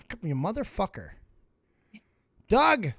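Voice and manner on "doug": calling out. Real, not acted. Calling muted caller.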